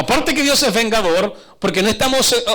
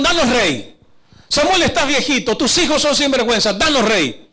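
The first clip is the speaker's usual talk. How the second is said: raised-pitch clamour of a demanding crowd; demanding people; 4 semitones higher, 3 dB louder than usual. Acted. The people demanding a king from Samuel, insistent clamour. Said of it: "Y dijeron".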